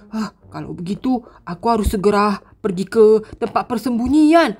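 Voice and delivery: sneak and murmur to yourself; hushed scared heroine. Acted. Sakura sneaks past zombies alone.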